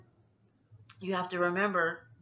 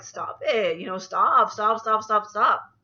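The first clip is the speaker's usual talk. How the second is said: telling herself to stop; 2 semitones higher, 7 dB louder, slower than usual. Retold or imitated. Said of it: "I was over here like".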